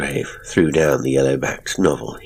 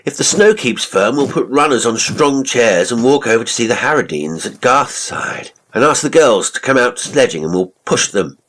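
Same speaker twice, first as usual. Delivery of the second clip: eager call out across the snow; hearty shout to the others; shouting ahead to friends in the snow; 8 semitones higher, 5 dB louder than usual. A narrator's reading. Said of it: "shouted Musgrave".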